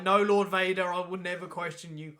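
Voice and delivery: lightly acted dutiful reassurance; placating underling. Admiral answering Lord Vader, lightly placating. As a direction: play a mildly deferential admiral.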